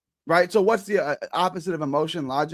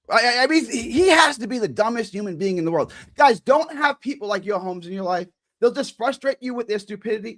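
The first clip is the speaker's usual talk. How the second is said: raised, insistent voice in an argument; 2 semitones higher than usual. Real, not acted. Streamer warning viewers about foolish people, voice raised. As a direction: argue heatedly, pushing the voice up. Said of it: "why are you raising your voice".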